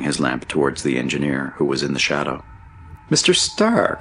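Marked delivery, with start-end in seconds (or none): 3.1-4.0 high-pitched cry of recognition; much higher, surprised exclamation; astonished cry. A narrator's reading. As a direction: cry out at an unexpected meeting. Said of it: "cried Jack Ryan".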